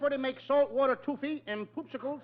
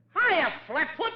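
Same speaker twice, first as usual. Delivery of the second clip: mocking taunt; 4 semitones higher, much slower than usual. Taunting the cop.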